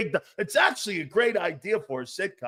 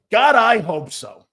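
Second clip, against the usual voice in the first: "God, I hope so" said louder and slower, leaning on God; emphatic repeat; 3 semitones higher, 7 dB louder than usual. Real, not acted. Host answering about Goddard, emphatic and slow. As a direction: push it out with longing.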